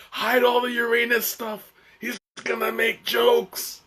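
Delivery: high, hammed-up warning; mock alarm. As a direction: put on a high voice for imagined planetarium staff. Retold panicked staff hiding Uranus exhibits.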